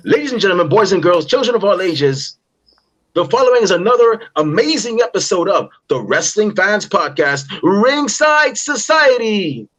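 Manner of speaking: booming ring announcer intro; ringmaster. Acted.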